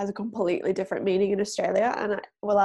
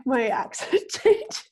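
"changes" drawn out slowly with an upward lilt; slow, amused rise on "changes"; rising sentence ending; 3 semitones higher, slower than usual. Real, not acted. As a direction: let "changes" lift up at the end. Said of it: "I just heard it".

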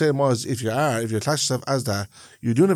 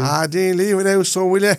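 lightly raised Ballymun party-piece voice; put-on Ballymun voice; 5 semitones higher, 3 dB louder than usual. Shown as a demonstration. Coaxed by his co-host, put-on Ballymun voice. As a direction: put on your comic Ballymun voice, slightly louder. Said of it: "would you do your voice that you do".

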